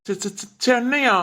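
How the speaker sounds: slow, stuttered disbelief; stunned stammer. Acted. Friend springs a Chennai trip on him, stunned stammer. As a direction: stumble over the first syllable in surprise.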